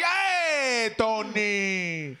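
calling out. Retold or imitated. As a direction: shout his name to get his attention. Calling out to a friend.

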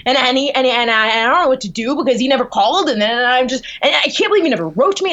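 retold flustered panic, words tumbling out; mock frantic run-on fretting; freaking out. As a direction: re-enact a worked-up, stammering rant to a roommate. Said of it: "just, like, freaking out".

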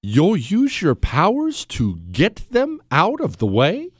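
slow, sarcastic echo; incredulous slow echo of the president; mocking repeat. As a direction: throw his words back at him.

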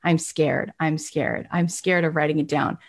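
mild mock fear; mock scared. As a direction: fret like a nervous goal-setter. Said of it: "So you're like".

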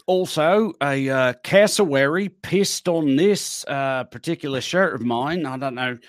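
loose attempt at New Zealand speech; Kiwi accent. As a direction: chat like a Kiwi laundromat customer. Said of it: "Kiwi Laundromat".

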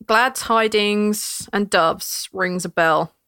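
slow, measured lore telling; lore narration. A narrator's reading. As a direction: tell the history slowly.

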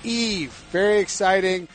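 hammed-up Southern host accent, welcoming everyone. Host opening the Pick Six Podcast, in a mock Southern accent. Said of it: "The host's Southern accent was totally garbage".

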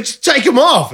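high-pitched snapping bogan partner; mock Australian bogan scolding; angry Australian bogan. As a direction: imitate her bogan outburst. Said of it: "like, an Australian bogan person".

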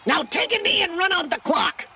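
high, strained shouted order; growling coach. A narrator's reading. Coach ordering quarterback to end play, angry growl. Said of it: "Hokor growled in his earpiece".

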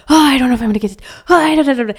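put-on high, fretful child's whine; panicky kid voice. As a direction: play a nine-year-old freaking out over homework. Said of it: "And he's like".

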